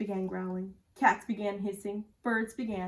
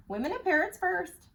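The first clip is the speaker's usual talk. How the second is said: parrot alarm; 10 semitones higher, 4 dB louder than usual. A narrator's reading.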